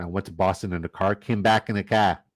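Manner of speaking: put-on dropped-R Boston accent, "car" as "cah". Host mimicking a fellow drafter's Boston accent. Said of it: "Boston accent".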